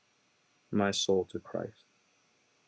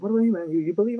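imitating brother-in-law; 11 semitones higher, 5 dB louder, much faster than usual. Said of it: "It's like".

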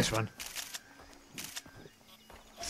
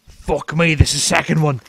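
loud, raised exclamation; excited outburst; 4 semitones higher, 11 dB louder than usual. Real, not acted. Game player spotting a second animal, excited. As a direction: blurt it out loudly in amazement.

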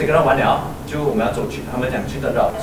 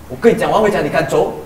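raised, insistent I'm going home; imitating angry drunk; 3 semitones higher, 4 dB louder than usual. Drunk friend snapping at her, mock angry. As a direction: push back hard, half-shouting. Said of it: "他这样子".

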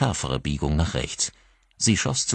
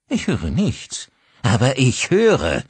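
slow, higher, louder menace; menacing anger; 8 semitones higher, 5 dB louder, slower than usual. Acted. Father pressing the silent woman, slow and menacing. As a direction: press her slowly.

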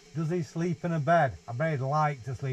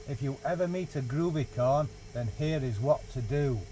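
gently paced picture-book reading voice; reading to a child. Acted. Dad reads the groovy corn book to his dog, storybook voice. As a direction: read it like a bedtime story.

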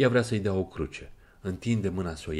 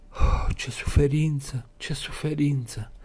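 slow, higher moan of pain; 7 semitones higher than usual. Acted. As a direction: groan it out, slow and hurt. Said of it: "gemu Sonia". (gemând încet, îndurerat)

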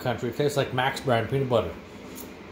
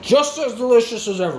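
higher, pleased praise; happy praise; 8 semitones higher than usual. Real, not acted. Tasting the Mars bar for the boys, higher and pleased.

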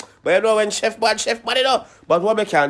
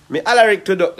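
put-on allergic said in a Jamaican accent, sounding like Alaric; 6 dB louder than usual. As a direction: Jamaican patois: allergic said the way the chef says it. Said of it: "Oh, it's an accent?".

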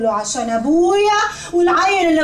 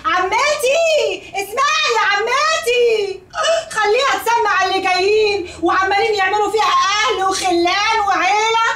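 tearful shout; 2 semitones higher than usual. Acted. Daughter yells so stepmother hears.

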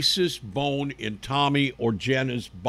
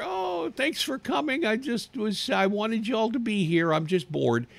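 higher, a hint of a cheeky boy; lightly voiced boy; 8 semitones higher than usual. Boy thanking villagers for coming, lightly voiced cheeky. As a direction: sound like a bored kid teasing.

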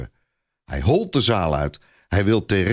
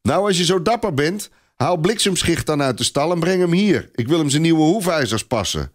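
taunting dare; 8 semitones higher than usual. A narrator's reading. Clopin taunting the boy.

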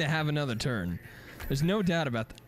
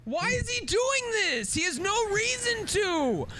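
mock rage; slower than usual. Angry outburst at opponent.

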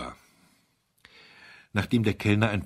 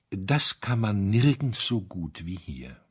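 solemn remark. Acted. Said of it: "die feierliche Bemerkung".

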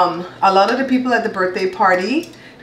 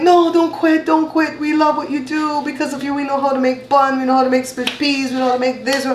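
pleading fans; 5 semitones higher than usual. Retold or imitated. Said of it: "And they're like".

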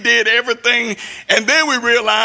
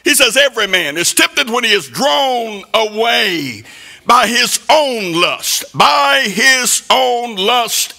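rising, pounding sermon delivery; preaching at full force. Acted. Preacher warning the church about temptation, pounding sermon voice. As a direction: preach it hard at the congregation.

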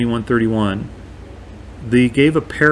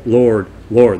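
mildly emphatic imitated appeal; retold insistent address; 4 dB louder than usual. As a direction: insist a little louder, imitating the claimants. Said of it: "They're emphatic".

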